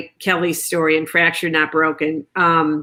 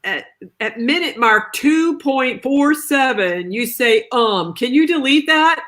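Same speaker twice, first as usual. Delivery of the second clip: mock polite request; 6 semitones higher than usual. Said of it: "you're like".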